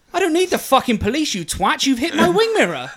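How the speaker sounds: retold angry retort.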